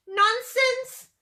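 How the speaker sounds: high, loud motherly scold. A narrator's reading. Mother T-Rex to scared children, loud scolding. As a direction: dismiss it sharply and loudly. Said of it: "Their mother scolded".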